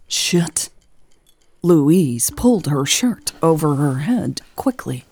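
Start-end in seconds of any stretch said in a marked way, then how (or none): 0.1-0.7 breathy whispered swear; whispered curse. A narrator's reading. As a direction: hiss it under your breath. Caught, swears under breath.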